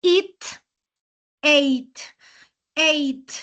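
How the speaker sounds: It said like "it" with a short i, then ate said like "eit"; teacher models It and then ate, each word set apart; contrasting It with ate, clearly said; pronunciation demo. Shown as a demonstration. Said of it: "se pronuncia diferente".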